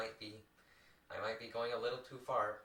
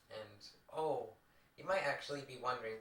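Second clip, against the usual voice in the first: muffled VCR recording sound. Real, not acted. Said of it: "because I'm recording this on a V C R".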